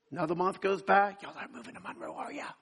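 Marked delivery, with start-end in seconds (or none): 1.2-2.5 hushed, secretive whisper of the same question; a nosy friend whispering the question. Retold or imitated. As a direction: lean in and whisper it like gossip. Same question asked again, hushed.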